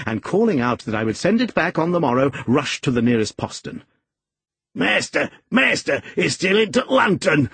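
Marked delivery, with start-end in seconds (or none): 4.7-7.5 high-pitched alarmed shout; old man's high dialect holler; shouting old servant. A narrator's reading. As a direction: call out to the master, voice raised high. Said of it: "shouted the ancient".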